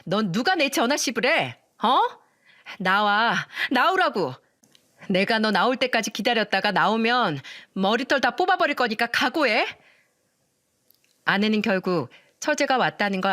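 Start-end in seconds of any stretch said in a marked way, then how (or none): 0.0-9.7 yelling. Retold or imitated. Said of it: "소리를 지르면서 말했어요".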